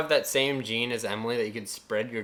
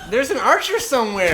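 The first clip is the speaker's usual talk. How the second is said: higher, louder warning shout; louder alarmed shout; 10 semitones higher, 11 dB louder than usual. Real, not acted. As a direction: shout it out to be heard. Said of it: "repeated louder".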